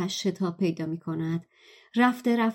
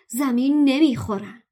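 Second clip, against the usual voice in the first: growling; 4 semitones higher, 4 dB louder than usual. Acted. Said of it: "رون غرید".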